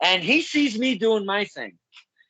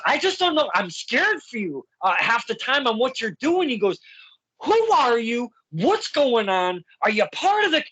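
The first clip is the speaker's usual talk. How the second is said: imitating a confused fan; 5 semitones higher than usual. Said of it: "threw like thirty questions at me".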